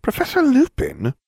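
very high, drawn-out mock wail; whining. A narrator's reading. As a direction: whine tearfully, stretching the words out slowly. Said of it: "Ron whined".

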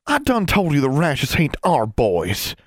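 slow, puffed-up country voice; indignant country sister. A narrator's reading. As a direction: drag it out, offended. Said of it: "Constance puffed up".

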